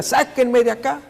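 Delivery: high-pitched mock yell, no real volume; imitated cry for release. Tied-up hero begs his sailors, mock high yell. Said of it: "y él grita".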